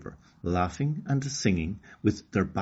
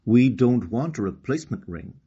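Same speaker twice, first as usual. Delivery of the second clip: mild mock yell; 3 semitones higher, 5 dB louder than usual. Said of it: "Monka's mother yelled".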